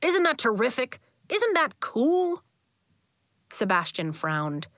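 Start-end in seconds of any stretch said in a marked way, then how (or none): 0.0-2.4 enthusiastic. Acted. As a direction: sell it to the kids. Coach enthusing to kids.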